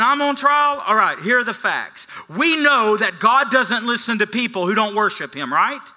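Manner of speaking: a hint of a defiant beggar on trial; acting as the beggar. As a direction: argue the facts like a man on trial. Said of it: "I was pretending to be him".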